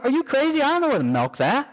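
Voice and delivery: high, disbelieving mock protest; husband's mock outrage at a milk run; incredulous retort. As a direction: fire back like the request is absurd. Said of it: "I'm like".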